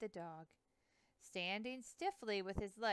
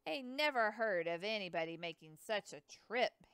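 scoffing; 7 dB louder than usual. Acted. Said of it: "Hanson scoffed".

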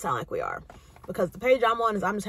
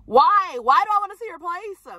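higher, louder disbelief; incredulous; 8 semitones higher, 5 dB louder than usual. Retold or imitated. Refusing her date's apartment invite, louder incredulous scoff. Refusing to see his place.

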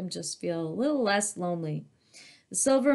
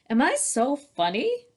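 1 dragon voice; 7 semitones higher, 4 dB louder than usual. A narrator's reading. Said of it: "Dragon asked them".

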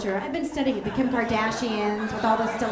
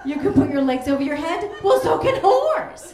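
mock sarcastic. Mocking yoga students.

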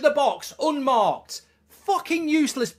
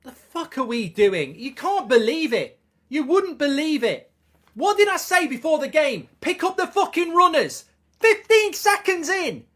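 angry rant; 2 semitones higher than usual. Real, not acted. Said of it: "Look at the anger".

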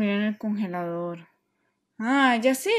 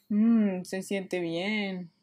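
relieved sigh; 4 semitones lower, 3 dB quieter, much slower than usual. Acted. Relaxing in cold water.

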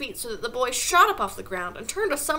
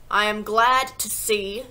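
slow, loud, deliberate villain; slow and forceful tyrant; menacing headmistress; 7 dB louder, slower than usual. Acted. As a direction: weigh each word with heavy menace.

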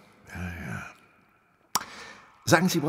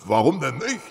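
disguised working man; 4 semitones higher, 5 dB louder than usual. Acted. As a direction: play the humble simple man, unhurried. Holmes still in Miller disguise.

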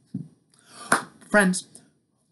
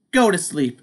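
high, loud Toad shout; pitched-up cheerful toad shout; 5 semitones higher, 4 dB louder than usual. Acted. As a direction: call it out like a happy discovery. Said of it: "shouted Toad".

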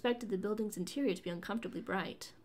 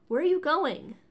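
calling out loud, higher; calling after; 7 semitones higher, 10 dB louder, slower than usual. A narrator's reading. Leia calls after the Wookiee leaving the ship, loudly. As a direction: shout after him as he walks away. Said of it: "Leia called after the Wookiee".

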